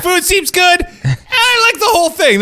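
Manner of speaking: high, whiny mock of his praise; mocking impression. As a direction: whine it back at him, teasing. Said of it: "You're like".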